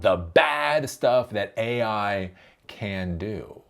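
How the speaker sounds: quoted slowly, each word weighted; slow quoted phrase. Shown as a demonstration. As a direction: read the quote slowly, mocking it.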